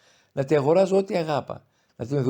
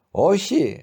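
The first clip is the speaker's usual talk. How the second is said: loud, raised cry of no; exclaiming mother; 6 semitones higher, 7 dB louder than usual. A narrator's reading. Mother cries out against her son, loudly. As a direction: burst out in protest. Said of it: "ανεφώνησε".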